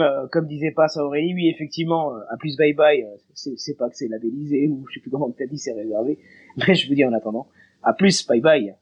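stuffy voice from a head cold; voice rough from a cold. Real, not acted. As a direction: speak through a lingering cold, voice worn. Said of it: "désolé pour ma voix dégueulasse, je suis encore un peu enrhumé".

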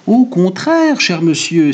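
high, loud-edged outburst of protest; exclaiming barber. A narrator's reading. Barber contradicts his client, high eager exclamation. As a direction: cry it out, pitch leaping up. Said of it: "s'écria le barbier".

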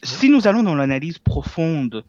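put-on accent from France by a Québécois; Québécois doing a French accent. Shown as a demonstration. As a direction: imitate a French speaker. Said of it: "avec l'accent français".

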